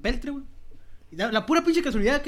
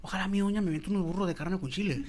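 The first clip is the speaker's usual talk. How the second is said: ordinary talk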